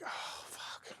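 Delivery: breathless whispered oh fuck; reluctant inmate whispering his dread at the request. Retold or imitated. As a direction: mutter it under your breath, dreading it. Dread at Carl's demand.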